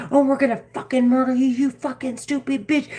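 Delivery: lightly voiced mocking threat, fast; a hint of sneering taunt; mock menacing voices. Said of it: "they're not saying".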